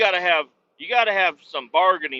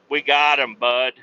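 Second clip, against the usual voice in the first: gloating alien; 3 semitones lower, 6 dB louder than usual. Pretend. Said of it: "we're gonna".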